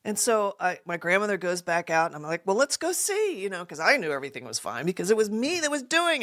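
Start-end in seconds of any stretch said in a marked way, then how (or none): 2.5-3.4 high, feigned helpfulness; put-on eagerness to investigate; putting on an act. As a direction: play the innocent helper, pitched up. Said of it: "Putting on this big act".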